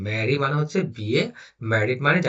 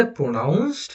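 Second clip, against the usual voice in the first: slow reading. Shown as a demonstration. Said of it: "মানে কিভাবে উচ্চারণ করা হয়".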